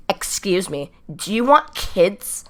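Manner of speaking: slow, drawn-out imitation of a confrontation; mock-serious question, stretched out at the end; dead serious. Lesbian girl challenging the teller, dead serious. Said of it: "like, dead serious".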